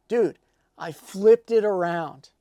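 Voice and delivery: milk the big reveal like a proud know-it-all; drawn-out mock triumph. Guitarist's proud reveal, retold.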